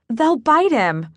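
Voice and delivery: anxious owner begging, voice rising; desperate. Acted. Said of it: "with a desperate look at Macon".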